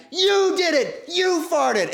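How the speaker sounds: very high, loud accusing shout; accusing yell. Retold or imitated. Friend shouting blame in the back seat. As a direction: blame her at full volume. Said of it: "they're fighting the back".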